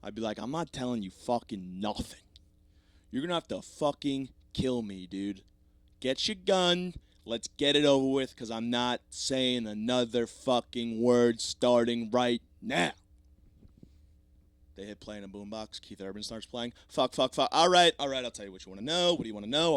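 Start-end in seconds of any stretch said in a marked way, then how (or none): 0.4-12.9 defiant bravado, building louder and more drawn out; tough defiance. Acted. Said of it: "I'd start off very tough". 16.9-19.1 loud burst of swearing, then hasty giving in; mock panicked surrender. Acts out cracking under music torture.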